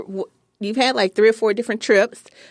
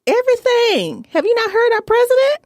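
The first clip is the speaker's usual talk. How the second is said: paranoid conspiracy voice; 13 semitones higher than usual. Acted. Mock conspiracy theorist bit.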